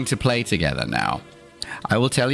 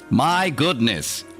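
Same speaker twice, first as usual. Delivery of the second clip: mock shock; 4 semitones higher, slower than usual. Closing the sarcastic bit.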